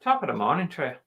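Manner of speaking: amateur Irish accent; second-try Irish accent. Shown as a demonstration. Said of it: "That was not Irish".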